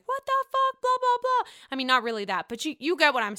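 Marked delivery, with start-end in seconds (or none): 0.1-1.5 much higher, louder mock freak-out; mock outburst. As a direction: flip your lid, hammed up. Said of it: "she flipped her lid and she's like".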